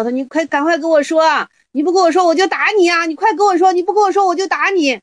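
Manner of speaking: high, urgent demand with a mock threat; insistent threatening disciple. Disciple threatening his teacher, high and insistent. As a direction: nag him until he breaks.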